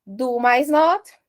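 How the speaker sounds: "Do mais not" said slowly; slow spelling out. Shown as a demonstration. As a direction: build the contraction piece by piece. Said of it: "fica como". (montando a contração, bem devagar)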